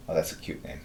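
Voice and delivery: ordinary talk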